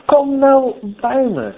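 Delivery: high, slow appeal to come; pleading call. Acted. God calls hidden Adam to come, pleading. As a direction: plead with them, mildly tearful at most. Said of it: "God die heeft met tranen geroepen".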